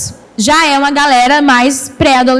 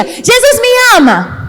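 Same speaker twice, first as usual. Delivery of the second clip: aguda e esticada, como grito de brincadeira sem gritar; animada para crianças; 8 semitones higher, slower than usual. Acted. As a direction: proclame devagar e bem agudo para os pequenos. Mostra o princípio às crianças. (animada, voz aguda de tia da escolinha)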